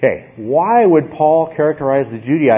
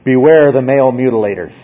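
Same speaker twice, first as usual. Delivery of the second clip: firm, somewhat louder warning; forceful; 5 dB louder than usual. Shown as a demonstration. Preacher showing how forcefully Paul speaks, firm warning. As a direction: drive the warning home. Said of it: "how forcefully Paul is speaking".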